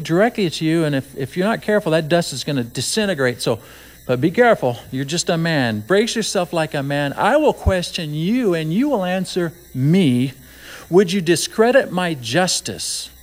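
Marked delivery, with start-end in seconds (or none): 5.9-13.1 voice of God. Retold or imitated. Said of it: "God says to Job".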